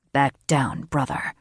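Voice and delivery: urgent plea that fades away; pleading. A narrator's reading. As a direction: beg your brother to stop. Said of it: "Drake pleaded".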